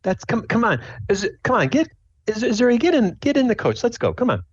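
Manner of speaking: high-pitched hurrying mom voice; impatient mom. Acted. Mom urges Azuri into the coach, impatient mom voice. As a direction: hurry them along in a high voice. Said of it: "So your mom, like, said".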